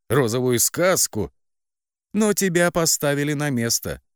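mocking sister. A narrator's reading. Sister mocks and laughs at heroine.

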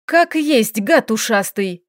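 vexed jab at him; annoyed. Acted. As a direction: say it with real annoyance. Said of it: "С досадой произнесла она".

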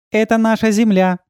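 high, proud statement; proudly. A narrator's reading. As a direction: show off the planet. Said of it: "гордо сказала Яна". (Яна гордо показывает Землю)

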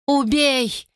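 high, breathless begging; woman begging to be killed; gasping plea. Acted. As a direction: beg for death in pain. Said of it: "задыхалась от боли".

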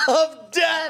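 high, hammed-up title announcement; mock melodrama. Co-host echoing the episode title, mock melodramatic. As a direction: cry it out high like a lurid title.

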